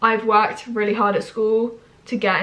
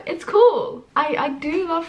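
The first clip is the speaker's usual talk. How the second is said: squeaky high little exclaim; excited; 7 semitones higher, slower than usual. Real, not acted. Vlogger squeals that learning is cool. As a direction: pop it up high with delight.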